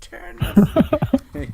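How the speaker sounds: high, loud, slow creature voice. Acted. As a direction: drag it out like a monster.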